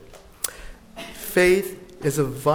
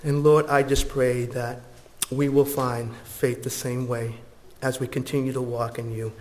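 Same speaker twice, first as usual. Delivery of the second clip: prayer; 3 semitones lower than usual. Acted. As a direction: pray gently and sincerely. Closing prayer.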